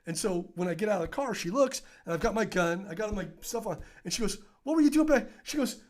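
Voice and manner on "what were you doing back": loud, high imitation of disbelief; retold incredulous demand. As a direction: act out an appalled sergeant. Sergeant sees gun, scolds cop.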